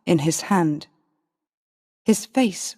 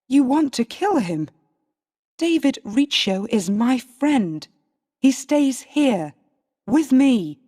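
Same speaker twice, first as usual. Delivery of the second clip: raised, higher and firm; defiant protest; 5 semitones higher than usual. Acted. Queen refusing to give up her friend, raised defiant voice. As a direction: stand your ground, voice pitched up.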